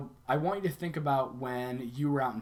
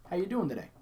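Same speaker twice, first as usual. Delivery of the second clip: higher, sincerely interested question; caring greeting; 5 semitones higher, faster than usual. Shown as a demonstration. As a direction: ask as if you actually care. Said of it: "but saying it like".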